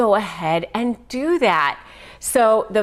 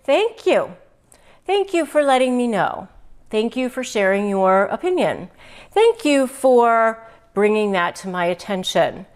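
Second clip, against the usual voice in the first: polite thanks. Shown as a demonstration. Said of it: "the next thing ... you can say".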